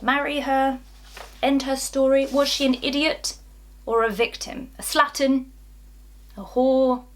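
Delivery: mock accusing questions. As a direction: fire off their accusations, building to the last word. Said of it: "they ask".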